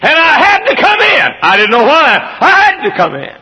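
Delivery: very high, loud cry; preacher voicing the husband at full shout; husband's shouted story. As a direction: shout it like the call overcame him. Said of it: "and he said".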